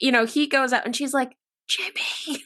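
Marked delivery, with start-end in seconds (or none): 1.7-2.4 calling out in a hushed whisper. Retelling a horror movie scene, imitating a character whispering.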